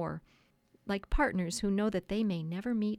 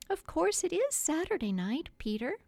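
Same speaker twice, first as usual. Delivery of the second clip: high-pitched relenting Wendy-like wife; 9 semitones higher than usual. A narrator's reading. Wife giving in to husband about the dance, relenting. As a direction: give in, pitched well up.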